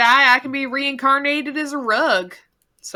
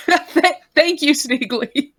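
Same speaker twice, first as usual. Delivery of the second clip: nervous laughter. Real, not acted. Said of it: "I'm laughing because I'm nervous".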